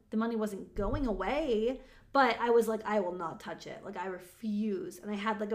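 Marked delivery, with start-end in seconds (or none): 2.8-5.0 low, firm, deliberate refusal; strong refusal. Retold or imitated. Coach recalls refusing to touch the money, firm resolve. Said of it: "a very strong energy of that".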